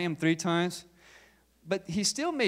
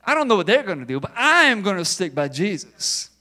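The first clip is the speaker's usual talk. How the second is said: arrogant Peter; 3 semitones higher, 5 dB louder than usual. Retold or imitated. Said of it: "he's kinda arrogant".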